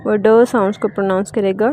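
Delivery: usual speaking voice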